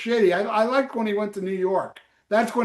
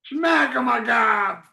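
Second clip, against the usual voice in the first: shouted sign-off; 4 semitones higher, slower than usual. Real, not acted. Shouted podcast sign-off catchphrase.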